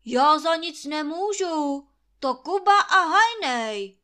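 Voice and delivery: loud, high defending himself; loud defensive whine. Acted. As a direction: shift the blame loudly. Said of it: "obhajuje se Trautenberg".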